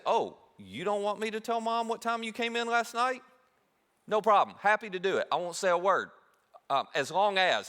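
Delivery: sweetly blackmail your big brother; smug sibling taunt. Retold or imitated. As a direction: kid sibling holding the upper hand over his brother. Younger sibling taunting older brother.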